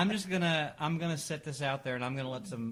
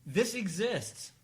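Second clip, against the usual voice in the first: incredulous; 7 semitones higher, 4 dB louder, slower than usual. Real, not acted. Incredulous rant about puppy contest.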